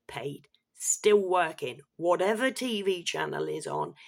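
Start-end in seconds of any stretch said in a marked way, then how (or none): 0.1-0.5 whispered. Real, not acted. Disgusted aside.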